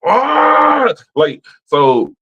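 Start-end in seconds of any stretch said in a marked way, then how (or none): 0.0-0.9 high, loud exasperated yell; frustrated yell. Retold or imitated. Fed up with the phone agent, yelling. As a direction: let out a fed-up cry.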